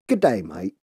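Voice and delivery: a quick, lightly put-on Australian greeting; mock Australian accent. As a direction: toss off Australian "mate" in passing. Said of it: "that was Australian".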